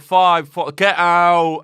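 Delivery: loud mock countdown yell; countdown shout. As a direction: bellow the countdown. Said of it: "the time's like".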